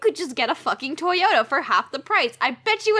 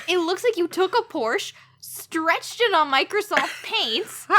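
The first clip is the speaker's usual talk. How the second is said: laughing anger; 5 semitones higher than usual. Real, not acted. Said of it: "I'm so angry I can't think of car names".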